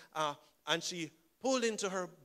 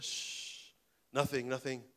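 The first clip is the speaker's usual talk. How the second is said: put-on whispered shh to hush the kids; soft hush, nearly no voice; 5 semitones lower, 6 dB quieter, much slower than usual. Mother hushing her curious kids with a whisper.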